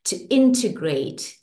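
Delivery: soothing tapping-session guide; guided affirmation. Acted. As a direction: speak each affirmation as a gentle promise.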